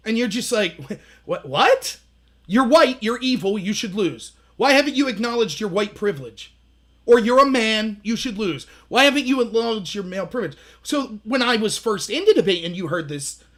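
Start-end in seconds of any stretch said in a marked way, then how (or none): 0.9-2.0 stunned disbelief. Retold or imitated. Stunned reaction to accusation. 2.5-10.6 mock accusation. Mimicking opponents' accusations.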